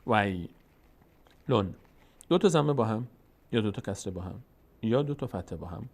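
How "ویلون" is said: ویلون drawn out very slowly, "way", pause, "lun"; very slow teaching demo of ویلون; syllable by syllable. Shown as a demonstration. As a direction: sound out ویلون in two separate parts. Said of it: "کلماتش رو و حرف به حرفش رو پیش بریم".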